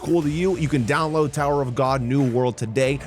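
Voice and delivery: upbeat ad read voice; sponsor read. Acted.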